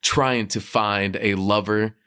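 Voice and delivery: measured anchor delivery, slowed; news reporter voice. Pretend. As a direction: deliver it like a live field report. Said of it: "Did you have a news reporter voice".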